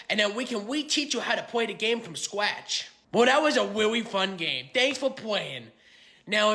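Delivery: high, loud nerdy braggart; boastful card-game champ. Acted. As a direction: brag like a smug hometown card champion.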